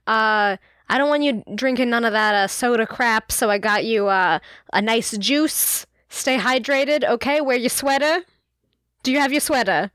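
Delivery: lightly voiced fussing mom; own mom. Mom handing Percy his Costco snacks, lightly imitated. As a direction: ramble through a mom's checklist with a little lilt. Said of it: "she'd probably sound like my mom".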